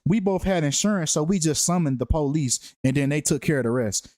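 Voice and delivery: lightly voiced fake accident report; mock witness statement. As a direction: rattle it off like a stiff police report. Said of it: "You hear how weird that sounds?".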